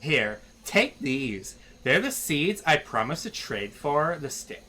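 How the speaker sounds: put-on mild Canadian Valley Girl accent. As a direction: hand over the seeds with a Canadian eh. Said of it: "Valley Girl and Canadian".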